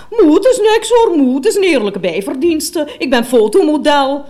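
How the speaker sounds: pleading daughter. Retold or imitated. Daughter's voice in retold quarrel.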